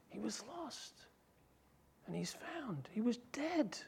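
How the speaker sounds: father hushed with wonder. Acted. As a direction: drop to a soft hush.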